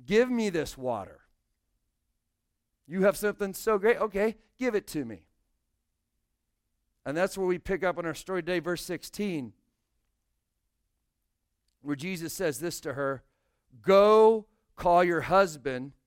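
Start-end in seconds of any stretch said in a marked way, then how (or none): 0.0-5.3 dry mock eagerness, a touch louder; sarcastic. Pastor voicing the woman, mock-eager sarcasm. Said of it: "she's being sarcastic here too". 13.8-15.9 commanding. A narrator's reading. Jesus's command, slow and loud.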